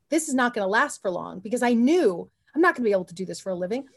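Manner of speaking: usual speaking voice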